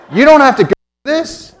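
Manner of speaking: high, loud retort from a woman in labor; hammed-up outburst at a clueless husband; mock exasperated yell. Sister in labor snaps at husband.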